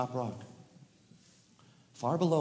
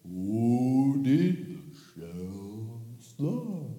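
slow drawn-out amazed question; amazed wonder; much slower than usual. Acted. Turtles in the pond, slow amazed wonder. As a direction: ask it slowly in wonder.

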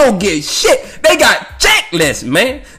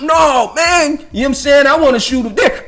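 raised, whiny insistence; grumpy insistent voice; 6 semitones higher than usual. Retold or imitated. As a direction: push back like a stubborn old man. Grumpy man insisting on deer.

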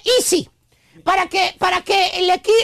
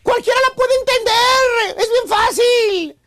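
exasperated wife; 3 semitones higher, slower than usual. Retold or imitated. Wife scolding husband over daughter's homework, whiny exasperated voice. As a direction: nag him like a fed-up wife, voice cracking. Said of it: "Y la esposa".

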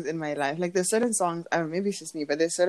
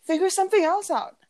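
high, earnest mock pep talk; hammed-up encouraging tone; imitated encouragement; 7 semitones higher than usual. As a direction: imitate a young star being encouraging. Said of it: "I'm being encouraging right now".

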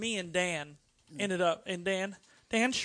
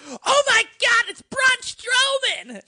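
loud, high-pitched excited shout; high starstruck yell, drawn out at the end; fan freak-out; 10 dB louder, slower than usual. Retold or imitated. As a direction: imitate a fan screaming at a celebrity. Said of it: "freaks out and goes".

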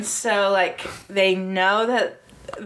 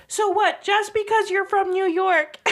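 mock yell; 9 semitones higher than usual. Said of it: "And Maddie's like".

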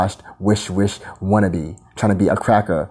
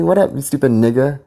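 taunting; 5 semitones higher than usual. Retold or imitated. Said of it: "No, I say".

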